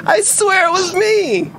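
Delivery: sped-up squeaky chipmunk voice. Real, not acted. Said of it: "there goes Chipmunk Boy".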